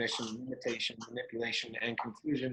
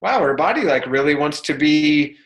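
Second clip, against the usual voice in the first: amazed; 9 dB louder than usual. Retold or imitated. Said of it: "I was like".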